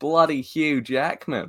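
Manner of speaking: bad put-on Australian accent. Keeping up the bit for the rest of the episode, in a bad Australian accent. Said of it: "You sound like the fucking koalas from BoJack Horseman".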